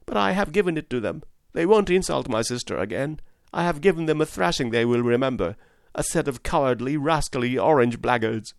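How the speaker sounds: put-on a mild touch of boyish fury; angry boy. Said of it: "looking very angry".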